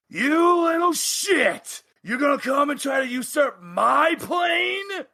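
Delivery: angry cavewoman mother shouting at the intruder; furious cavewoman. Acted. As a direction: bellow at the intruder like an enraged giantess. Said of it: "she just looks and goes".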